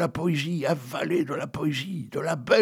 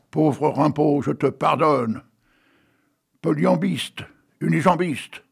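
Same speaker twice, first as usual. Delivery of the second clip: poem reading; slower than usual. Acted. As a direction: read it out like verse on the radio. Reads a poem on air.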